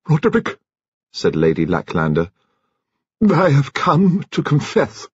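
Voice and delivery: put-on a grand old lady, deliberate; Lady Lacklander. A narrator's reading. Narrator voices Lady Lacklander.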